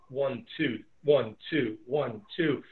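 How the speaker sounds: "one, two" with the beat on "two"; iambic beat. Shown as a demonstration. Teacher demonstrating the iambic rhythm to students, beat on "two". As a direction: tap out the iamb da-DUM. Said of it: "that rhythm".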